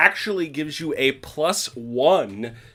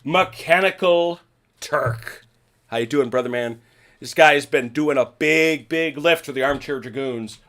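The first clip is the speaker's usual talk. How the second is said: hockey announcer voice. Acted. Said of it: "You said that in such a hockey announcer voice".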